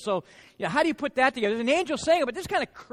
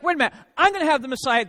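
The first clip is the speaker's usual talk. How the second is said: astonished Mary; 4 semitones higher, 5 dB louder, faster than usual. Retold or imitated.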